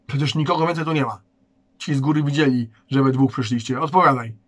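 loud, fast, rising impatience; impatient demand. Acted. Guard presses the boys for an answer, impatient and loud.

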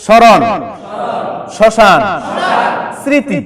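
স্মরণ, শ্মশান, স্মৃতি said with the ম silent, শরণ, শশান, সৃতি; silent m-phala pronunciation. Shown as a demonstration. Teacher to students, modelling words with the ম silent. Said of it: "অনুচ্চারিত রেখেই উচ্চারণ করি".

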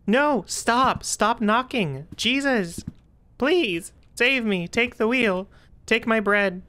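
panicked pleading. Real, not acted. Panicked at knocking in horror game.

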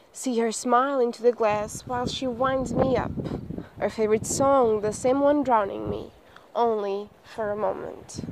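measured poetry recitation; poem reading. Acted. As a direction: read it as verse, pausing between phrases. Reads a poem aloud.

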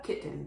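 kitten in everyday form, e swallowed; natural pronunciation. Shown as a demonstration. Adults around the child saying it, natural pronunciation. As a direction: let kitten end on a vague "n". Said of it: "周りの大人たちがkittenって言っている".

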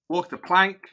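lightly growled pirate line; a hint of a hammy pirate. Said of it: "Let's be a pirate".

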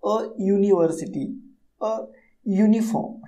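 "अ यूनिवर्सिटी, अ यूनिफॉर्म" set apart, each noun opening on Y; careful dictation of "यूनिवर्सिटी" and "यूनिफॉर्म" with a clear य; opening Y sound. Shown as a demonstration. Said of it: "य का sound निकल रहा है". ("यूनिवर्सिटी", "यूनिफॉर्म" अलग-अलग, य से शुरू)

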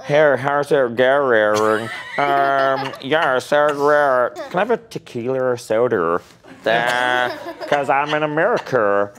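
mock American accent, slow start; a hammy American accent. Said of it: "Do your Brooklyn accent".

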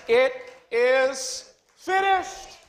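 slow, drawn-out declaration; solemn proclamation. Acted. Jesus on the cross declaring it finished, slowly and solemnly. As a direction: let each word land slowly. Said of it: "Jesus said".

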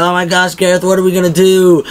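hammed-up terror, crying to the leader; panicked. Cannibals begging Gareth for help in a high, hammed-up panic. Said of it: "they're losing their minds".

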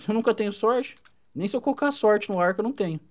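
mild self-pitying complaint; playful drama. Pretend. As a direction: lament your bad luck for effect. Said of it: "fazendo drama de novo". (draminha de coitado)

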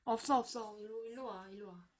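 soft, fading call; gentle coaxing. Real, not acted. The doctor softly coaxes the frightened doll closer. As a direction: coax the frightened patient closer.

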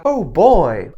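impressed reply. Shown as a demonstration. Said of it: "a druga odpowiada".

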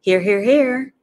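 high, loud honking triple answer; gander. A narrator's reading. Gander answering roll call, high and loud. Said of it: "said the gander".

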